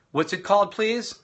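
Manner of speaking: bright-pitched classroom prompt; teacher's callback prompt. Shown as a demonstration. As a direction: cue the class to answer aloud. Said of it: "I'll go through this and I'll say".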